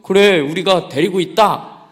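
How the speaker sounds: slow, high, loud hammed-up villain; mock kidnapper. Kidnapper on the line, hammed-up threat. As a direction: ham it up like a phone villain.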